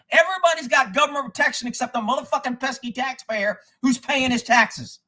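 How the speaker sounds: high-pitched, aggrieved venting; angry rant climax. Real, not acted. Taxpayer complaining everybody else gets protection, angry. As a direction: push it high, then stretch the ending.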